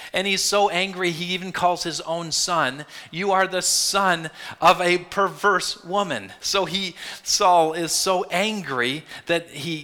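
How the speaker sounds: building intensity. Acted. Preacher recounting Saul's rage.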